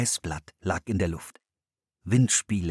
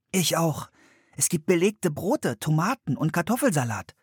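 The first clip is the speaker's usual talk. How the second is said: bright, much higher little-sister voice; Anne's voice; 8 semitones higher than usual. A narrator's reading. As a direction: greet her brother cheerfully. Anne zählt auf. (hohe Mädchenstimme, fröhlich)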